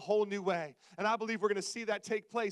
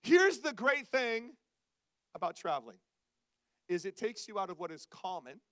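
earnest preaching; 8 semitones lower than usual. Real, not acted. Turns from comedy to earnest preaching.

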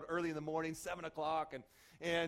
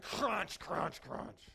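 crunching imitation; much slower than usual. Imitates backpack being run over.

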